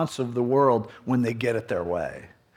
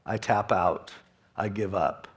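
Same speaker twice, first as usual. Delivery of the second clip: quiet surrender; 6 semitones lower, 8 dB quieter than usual. Retold or imitated. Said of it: "just go".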